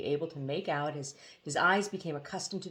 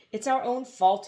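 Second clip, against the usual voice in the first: a touch of weeping, pitched higher; mildly choked-up self-blame; tearful genie; 6 semitones higher, 5 dB louder than usual. A narrator's reading. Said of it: "he wept".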